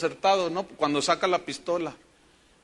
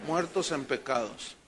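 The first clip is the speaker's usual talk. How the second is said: low answer; 4 semitones lower, 5 dB quieter than usual. Shown as a demonstration. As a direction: lower and softer, "muertos" stressed and falling. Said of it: "¿cómo estábamos?". (respuesta baja y suave, cayendo en "muertos")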